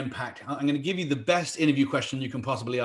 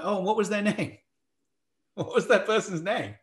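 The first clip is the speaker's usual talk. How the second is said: higher-pitched, offhand interviewer question; casual curiosity; 6 semitones higher than usual. Retold or imitated. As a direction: ask as if it just occurred to you. Acts casually asking for reference names.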